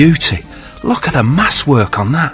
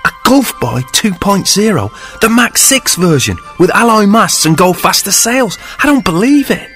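much higher, breathless wonder; awestruck; 10 semitones higher than usual. Acted. Sinbad marvels at his new ship, much higher wonder. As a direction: gasp it out in disbelief.

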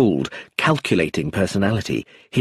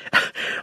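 laugh; 5 dB quieter than usual. A narrator's reading. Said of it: "Ruth found herself laughing too".

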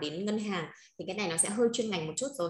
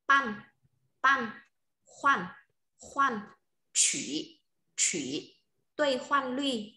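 teacher's slow, measured vocabulary drill; model word reading; much slower than usual. Shown as a demonstration. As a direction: read each word twice, evenly, leaving gaps to repeat. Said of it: "Em cô đọc một lần từ mới này".

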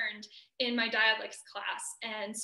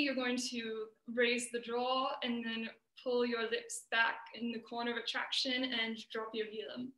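RP English accent. Shown as a demonstration. Student actor demonstrating to her audience, RP accent. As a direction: gradually shift into a light British RP. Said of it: "to give a demonstration".

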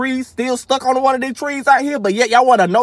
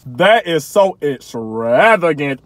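slow, lower, mock refined voice; mock rich folks; 6 semitones lower, much slower than usual. Vlogger imitates rich folks with big words, mock refined. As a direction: savor it like a snob. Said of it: "rich folks be using all the big words".

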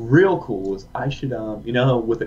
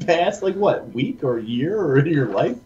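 laughing tease; 4 semitones higher, 4 dB louder, slower than usual. Real, not acted. Teasing question.

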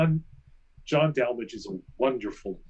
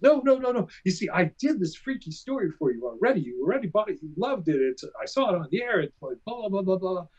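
imitating the caller; 5 semitones higher than usual. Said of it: "He says".

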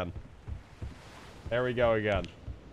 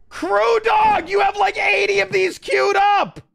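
high, loud call to the teammate; exasperated shout; 14 semitones higher, 6 dB louder than usual. Real, not acted. Gamer shouting at teammate Crew Dog, exasperated yell. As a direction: yell across at him, fed up.

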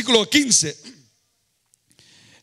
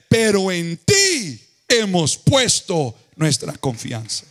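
slow, earnest reading of the prayer; solemn, unhurried preacher's reading; slow scripture reading; slower than usual. Acted. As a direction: read it like a weighty plea to God. Reads Josafat's prayer slowly.

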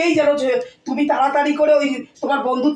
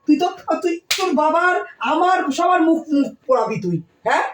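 angry scolding; 3 semitones higher than usual. Acted. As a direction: tear into your daughter, building to a shout. Mother scolding daughter over boyfriend. (মেয়েকে রাগে চিৎকার করে বকুনি দেওয়া মা)

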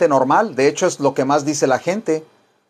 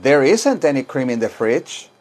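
"There isn't any cream in the fridge" with a slower, doubtful negative tune; slower than usual. Shown as a demonstration. Teacher shows students a negative-sounding intonation. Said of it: "hago una entonación que se oye negativa".

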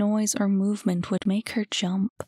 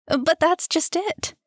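higher, slower, building eagerness; eager, higher and slower; rising excitement; 8 semitones higher, 3 dB louder than usual. A narrator's reading. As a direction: let the excitement mount. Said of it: "her excitement mounting".

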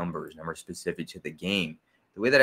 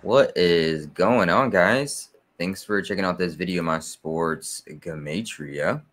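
louder, slow hype greeting; big channel intro; 5 dB louder, slower than usual. Acted. Host greeting viewers of his channel, loud slow hype. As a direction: open the show with a punchy call to the guys. Intro said twice, second full.

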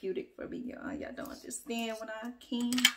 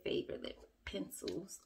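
a breathy unvoiced extra whisper on favorite lip pencils; overdone hushed praise; being extra; 7 dB quieter than usual. Real, not acted. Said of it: "I don't know why I said it like that. I'm just being extra".

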